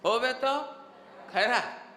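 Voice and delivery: emphatic, lifted concession; Swami ji. Retold or imitated. Teacher recalling the swami's morning discourse, emphatic concession. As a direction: imitate a preacher granting the point. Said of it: "स्वामी जी का".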